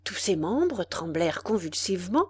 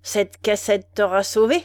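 ironic menace; 6 dB louder than usual. Acted. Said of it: "avec un affreux sourire ironique".

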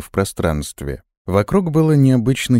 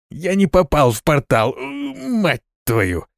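pained cry; 7 semitones higher, slower than usual. Acted. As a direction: voice jumps high in a yelp of pain, fading on the curse. Hit the gate, pained cry. (вскрик от боли, голос срывается вверх)

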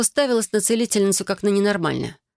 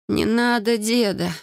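со стоном; 4 semitones higher, slower than usual. Acted. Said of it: "простонала я".

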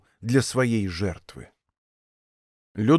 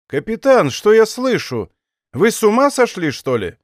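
higher-pitched outraged questioning; indignant disbelief; 6 semitones higher than usual. A narrator's reading. King hears his captain refused the arrest, indignant. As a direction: challenge him in astonished indignation.

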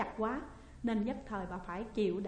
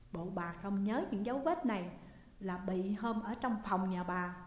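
usual speaking voice

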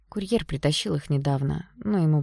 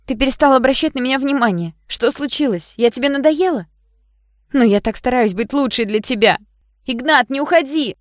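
loud, much higher pleading cries; desperate shouting; 9 semitones higher, 8 dB louder than usual. A narrator's reading. Yana begging Ignat not to leave, loud high desperate cries. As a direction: plead at the top of the voice.

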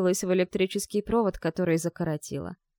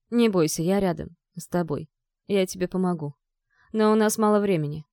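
firm. Acted. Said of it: "произнёс он жёстко, решительно".

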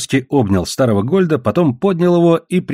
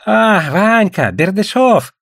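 high, drawn-out shouted greeting; calling out; 8 semitones higher, much slower than usual. A narrator's reading. Traders greeting the Russian, crying out. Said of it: "закричали торговцы".

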